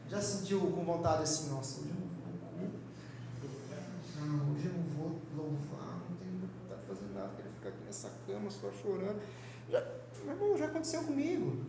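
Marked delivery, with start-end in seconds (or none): 1.5-9.2 weary whine. Retold or imitated. Voicing a weak believer's excuse.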